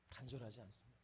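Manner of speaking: 조용히 되뇌듯; soft echo. Shown as a demonstration. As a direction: let "간절하지 않습니다" drop to a quiet echo.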